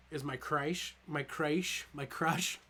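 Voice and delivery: put-on tipsy, lazy drunk delivery. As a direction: say it like you've had a few too many. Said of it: "I said it like a drunk man".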